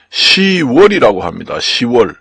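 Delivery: 시월 run smoothly as "si-wol", no p sound; 시월 said easily, flowing straight into 월; flowing pronunciation. Shown as a demonstration. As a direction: say 시월 with the ㅂ of 십 dropped. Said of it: "흐르듯이 쉽게 발음이 돼야 됩니다".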